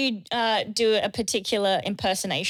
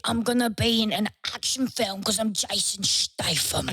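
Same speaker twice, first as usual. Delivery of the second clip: Jason Statham impression. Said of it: "I can do Jason Statham".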